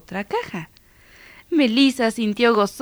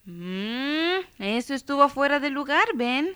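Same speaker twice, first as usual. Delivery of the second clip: mother; 6 semitones higher than usual. A narrator's reading. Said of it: "intervino la mamá".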